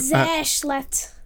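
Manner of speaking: Sehr schlecht in a hammed-up German accent; mock German. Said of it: "Your accent?".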